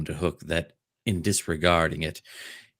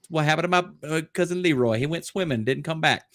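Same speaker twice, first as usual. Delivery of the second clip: mock aside; 10 semitones higher, much faster than usual.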